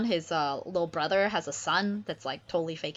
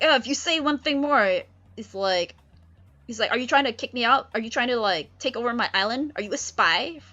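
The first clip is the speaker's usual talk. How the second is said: higher, louder, fast accusation; angry Prospero; 5 semitones higher, 4 dB louder than usual. Acted. Prospero accuses Ferdinand, fast and loud. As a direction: fire the questions at him.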